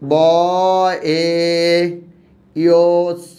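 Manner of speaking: ব এ ইয় স spelled out with pauses; sound by sound. Shown as a demonstration. Teacher breaking বেঞ্চ into its sounds. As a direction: spell each sound apart. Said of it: "বেঞ্চ".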